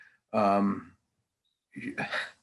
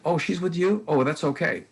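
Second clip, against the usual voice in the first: higher-pitched mimicked surprise; imitated backing off; 7 semitones higher, 4 dB louder than usual. Store staff noticing Maddie's parent, imitated backing off.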